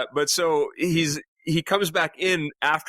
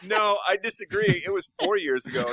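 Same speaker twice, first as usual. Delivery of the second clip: 1 bickering crewman; 6 semitones higher than usual. Retold or imitated. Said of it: "And the other guy goes".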